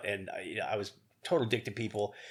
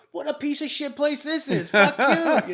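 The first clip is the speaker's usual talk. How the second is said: retold outburst; 11 dB louder than usual. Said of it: "I go".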